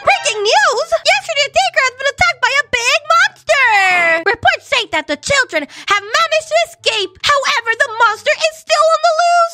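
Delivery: breaking-news bulletin delivery; formal, emphatic television announcer; TV newsreader. Pretend. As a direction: read it like an urgent news report.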